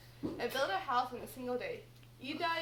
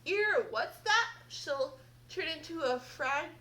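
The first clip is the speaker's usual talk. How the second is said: put-on loud, slow, puzzled deaf old fairy; a lightly voiced confused fairy; half-deaf fairy mishearing; 5 dB louder than usual. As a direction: cup your ear and shout back the wrong word. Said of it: "Tinginus returned".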